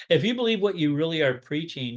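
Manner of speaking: laughing. Retold or imitated. It's a kind way of saying.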